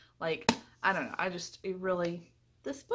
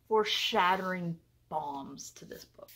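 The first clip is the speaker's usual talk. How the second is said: dramatic whisper; 3 semitones lower than usual. Acted. Dramatic rating delivery.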